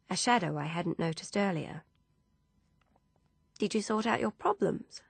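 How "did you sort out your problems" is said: whisper. Acted. Grace gently whispers a private question to Ursula.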